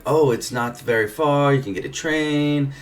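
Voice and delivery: high-pitched imitation German accent; fake German accent. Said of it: "my fake German accent isn't that great".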